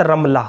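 رملہ as "ram-la", a after R; رملہ with zabar, "ram-la"; careful pronunciation. Shown as a demonstration. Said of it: "را کے اوپر زبر کے ساتھ".

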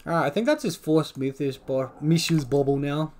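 tongue slipping on words; slight lisp. Real, not acted. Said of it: "just developed a bit of a lisp then".

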